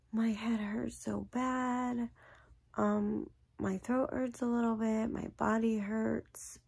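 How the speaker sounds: slow, whispered imitation of a hurting child; sick child. Daughter tells mom her head and body hurt, slow whispered whimper. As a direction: voice the sick little girl, drawn out and weak.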